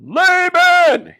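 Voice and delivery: loud, high furious call of the name; furious shout; angry cry. Acted. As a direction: yell Laban in outrage. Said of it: "he cried".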